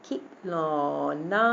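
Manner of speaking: खिलौना with a short खि, then long लौ and ना; quick first syllable. Shown as a demonstration. Teacher shows short vowel, खिलौना with quick खि, long ending. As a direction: snap खि short, stretch the rest of खिलौना. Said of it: "तो वो हम जल्दी से पढ़ लेंगे".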